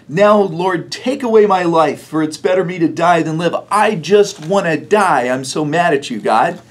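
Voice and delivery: mildly hammed-up sulky child begging to die; toddler tantrum. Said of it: "like a toddler who's having a temper tantrum".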